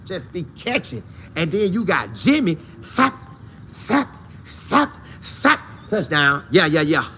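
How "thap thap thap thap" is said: sharp high "thap" sound effects; punchy little bursts, spaced out; imitated action noise. Commentator mimicking Jimmy on a play, as imitated noises.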